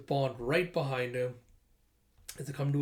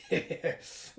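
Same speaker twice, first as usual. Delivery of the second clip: arsonist's chuckle. Retold or imitated. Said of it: "the arsonist being like".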